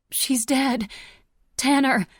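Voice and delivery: high, loud panicked cry; frantic shout. A narrator's reading. Daughter warning father about the killer, high panicked shout.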